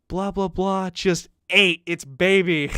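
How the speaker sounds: put-on frantic voice; mock freak-out. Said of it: "She's freaking out".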